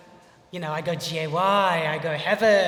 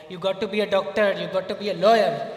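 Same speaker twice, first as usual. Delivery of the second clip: louder, insistent imitation of demanding parents; mock strict parents; 6 dB louder than usual. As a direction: bark out the parents' orders, half in jest. Parents' demands voiced in story.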